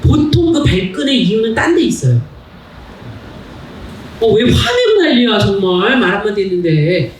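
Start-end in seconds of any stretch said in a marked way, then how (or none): 4.2-7.1 annoyed outburst. Retold or imitated. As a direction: fire back, offended and defensive. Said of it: "이게 아니라".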